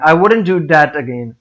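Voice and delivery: slow, with THAT picked out; stress on THAT. Shown as a demonstration. Teacher repeating the example for learners, stress on THAT. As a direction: lean on the word that, then let again fall. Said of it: "that का word है इसको stress करेंगे".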